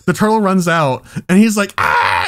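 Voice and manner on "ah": short imitated scream; brief burst of a retold scream; mock scream. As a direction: act out a startled kid's yell. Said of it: "And he's screaming".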